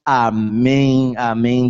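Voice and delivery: loud, slow, impassioned praying; fervent prayer. Acted. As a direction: pray with rising fervor. Preacher prays over congregation.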